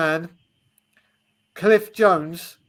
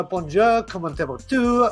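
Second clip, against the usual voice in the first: mock French greeting. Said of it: "Amir to come on and go".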